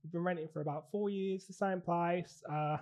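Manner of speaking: casual put-on Aussie accent; Australian accent. Teaching assistant asking recruiter about fostering, Australian accent. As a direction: play an Australian making an enquiry. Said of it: "I'm actually from Australia".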